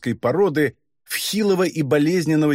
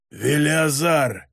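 proud croak; much slower than usual. Acted. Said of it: "гордо прохрипел бес".

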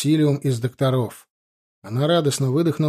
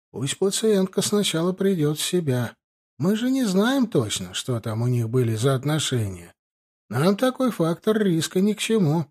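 slightly put-on, higher-pitched refusal; higher voice for the cautious doctor; lightly voiced chief doctor; 4 semitones higher than usual. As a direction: lightly act an official turning someone down.

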